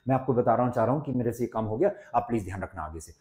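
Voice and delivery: hurried, running the phrases together; speaking too fast. Shown as a demonstration. Teacher imitating someone who talks too fast, hurried. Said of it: "कोई इस तरह से बोल रहा है".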